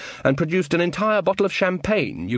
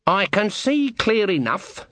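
calm; 8 semitones higher, slower than usual. A narrator's reading. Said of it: "said Granny calmly".

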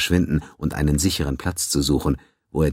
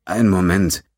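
put-on very old man; 4 semitones higher, 5 dB louder than usual. A narrator's reading. Old doctor suddenly alert.

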